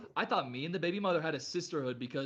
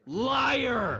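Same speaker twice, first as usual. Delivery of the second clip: mock yell; 5 semitones higher, 4 dB louder than usual. Yelling at the liar.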